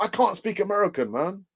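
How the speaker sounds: attempted American accent. Shown as a demonstration. Host offering accents as a perk, put-on American accent. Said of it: "in a different accent, I'll do my best".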